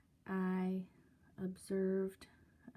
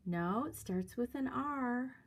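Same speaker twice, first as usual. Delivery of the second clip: mimicked playful hint, pitched up; sing-songy; 5 semitones higher than usual. Older man giving girls a clue, mock sing-songy. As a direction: lightly imitate teasing as if to children. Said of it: "sing-songy kind of a attitude".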